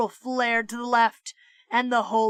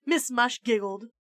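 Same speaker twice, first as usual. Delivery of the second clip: usual speaking voice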